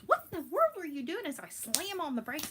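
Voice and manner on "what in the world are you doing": high, loud mock outburst; alarmed husband. Wife imitating husband as she slams the brakes, loud alarm. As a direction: exclaim it as the startled passenger. Retold husband reacting to sudden braking.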